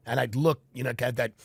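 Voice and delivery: ordinary delivery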